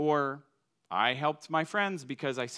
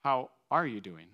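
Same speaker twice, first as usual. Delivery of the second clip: unhurried, caring question at a normal pitch; warm, sincere asking. Acted. Preacher showing Minnesota warm to someone met, sincere asking. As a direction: stop and really ask, smiling. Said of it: "actually be smiling and stopping and asking".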